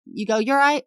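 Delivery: quick call and answer hello; light English accent; British greeting exchange. Shown as a demonstration. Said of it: "a mirroring of that response".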